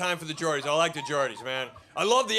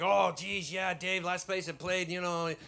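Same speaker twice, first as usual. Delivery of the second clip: reminiscing comedian; 3 semitones lower, 6 dB quieter than usual. Retold or imitated. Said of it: "A lot of comedians are reminiscing".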